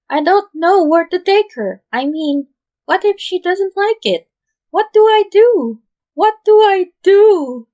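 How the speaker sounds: frantic high-pitched wail; spiralling into panic; panicked. A narrator's reading. Lambo panicking at Chuna over date plans, wailing. Panicking teen pleading for help.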